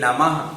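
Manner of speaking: नमः ending in an audible ha; visarga as ha. Shown as a demonstration. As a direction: finish नमः on a breath of h. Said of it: "इसका उच्चारण हा के समान होता है". (नमः के अंत में हा जैसी ध्वनि)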